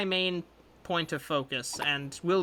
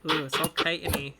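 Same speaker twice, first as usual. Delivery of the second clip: disgusted. Acted. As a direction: recoil from it, grossed out. Deb disgusted by crab.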